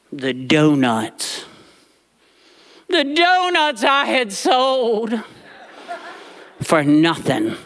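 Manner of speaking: slow, mournful whine over lost donuts; mock lament.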